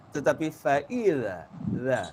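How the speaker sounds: faila with a soft light za. Shown as a demonstration. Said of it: "Sangat ringan bunyinya".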